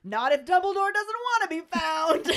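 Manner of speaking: high-pitched, hammed-up yell; mock yell. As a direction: call it out like a hard-of-hearing old examiner. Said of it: "Marchbanks just yells".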